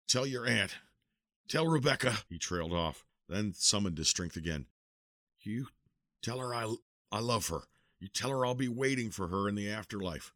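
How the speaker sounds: faltering, fading dying man; dying last words. Acted. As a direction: give your final loving messages. Dying uncle's last messages.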